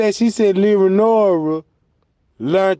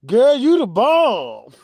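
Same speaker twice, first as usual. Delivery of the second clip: laughing praise; slower than usual. Pretend. Friend hypes her up, laughing.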